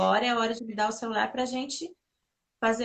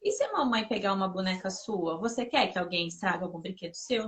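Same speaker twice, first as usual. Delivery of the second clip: put-on soft, calm voice crouched at a child's level; gentle explaining; 3 semitones lower, 4 dB quieter than usual. Mother kneels to explain to her daughter why the plant matters, softly.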